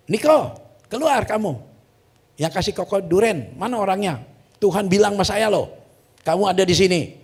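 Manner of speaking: loud summons to a congregation; calling out. Retold or imitated. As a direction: call someone out of the crowd. Calling Niko out from pulpit.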